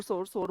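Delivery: सोर, सोर with one long 'o', both identical; Indian pronunciation. Shown as a demonstration. Teacher showing how all three words get said alike, Indian pronunciation. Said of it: "हम Indian pronunciation पे जाते हैं".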